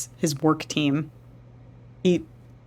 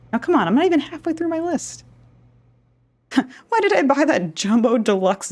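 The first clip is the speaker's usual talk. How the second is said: put-on old woman voice; 7 semitones higher than usual. Old woman character pushing on.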